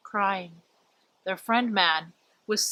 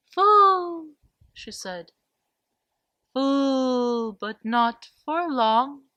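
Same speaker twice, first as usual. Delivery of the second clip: sad owl; 3 semitones higher than usual. Acted. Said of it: "her eyes were so sad".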